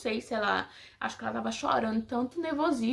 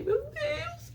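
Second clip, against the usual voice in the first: high, thin, soft wail imitated; imitating bursting into happy tears; tearful breakdown; 4 dB quieter than usual. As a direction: draw it out as a mock sob. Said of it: "eu desabei".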